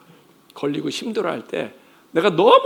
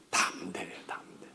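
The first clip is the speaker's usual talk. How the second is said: soft whisper; 9 semitones lower, 13 dB quieter than usual. Acted. Intimate emphasis in sermon.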